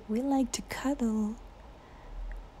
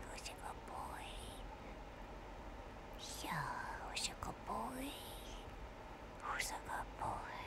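squeaky praising a dog; 22 dB quieter than usual. Real, not acted.

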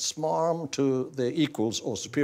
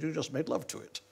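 sleepy voice; 3 semitones higher, 6 dB quieter than usual. Retold or imitated. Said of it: "And the sleepy voice said".

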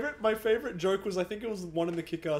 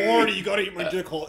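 Rick impression; 5 dB louder, faster than usual. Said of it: "Rick and Morty's just burp noises".

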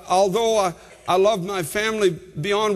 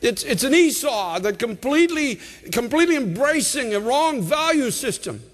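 higher-pitched exhorting preacher; impassioned preaching; 6 semitones higher than usual. Real, not acted. Preacher pleading with listeners for perspective, impassioned preaching. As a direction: press the congregation hard, driving key words home.

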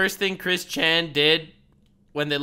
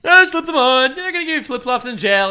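barking police commands; 7 semitones higher, 6 dB louder than usual. Retold or imitated. Streamer mimics cop's order.

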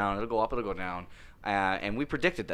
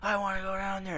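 put-on high whiny little kid voice; pleading like a toddler; 11 semitones higher than usual. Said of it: "He's like".

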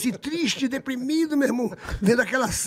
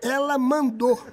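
very slow, higher, laughing; laughing punchline; 4 semitones higher, much slower than usual. Retold or imitated. Serginho revealing the insult to a TV star, slow laughing punchline. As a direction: drag it out while cracking up.

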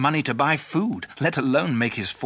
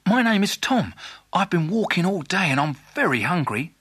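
higher, eager cat voice; talking cat; 5 semitones higher than usual. Acted. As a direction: introduce yourself as a hungry cat. The cat introduces himself.

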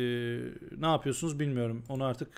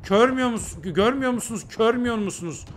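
exasperated yelling; 5 semitones higher than usual. Real, not acted. Streamer fed up with fans who won't see, high frustrated yelling. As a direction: hammer the question at them, fed up.

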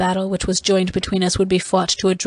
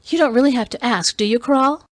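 taunting; 5 semitones higher, 4 dB louder than usual. Acted. Taunting question in quarrel.

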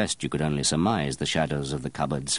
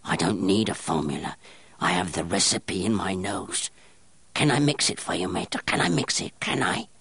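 strange eager gnome. Acted. Gnome-like apprentice begging master to let him mix, eager. Grenouille offering.

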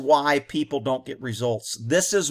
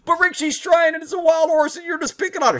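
high whiny mocking voice of a commenter; mock whiny critic; 10 semitones higher, 3 dB louder than usual. Rick mimics a critic defending her, high whiny voice.

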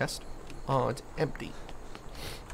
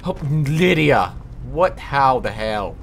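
loud, drawn-out cry of the name, then bafflement; startled exclamation; 6 dB louder, slower than usual. Real, not acted. Gamer jump-scared by companion Lydia, startled exclamation.

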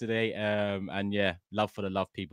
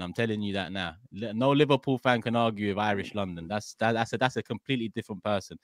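mock Irish London threat. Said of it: "I said".

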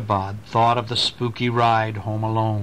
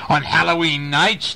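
thundering; 3 semitones higher than usual. Acted. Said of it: "thundered Brom".

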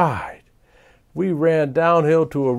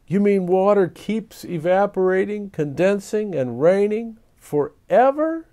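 gasping; 7 semitones higher than usual. A narrator's reading. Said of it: "gasped Arnold".

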